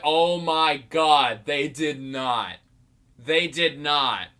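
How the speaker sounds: slow, stretched-out stunned reaction; drawn-out disbelief. Retold or imitated. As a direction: replay the shock, dragging out each word. Retells own disbelief at the cameo.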